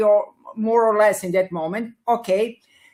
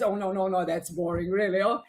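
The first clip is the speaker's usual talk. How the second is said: lion voice; 6 dB quieter, faster than usual. Retold or imitated. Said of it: "and the lion says".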